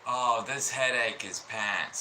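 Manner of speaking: put-on slow go at a British accent; a tentative mock-British complaint; attempted British accent. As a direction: try talking like the British, drawn out. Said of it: "not gonna try talking like y'all".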